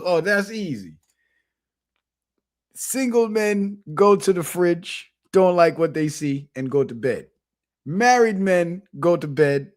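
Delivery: lightly imitated Jamaican elder; measured punchline in a put-on Jamaican accent. Old monkey explains married and single men, lightly imitated Jamaican accent. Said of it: "they got Jamaican accents".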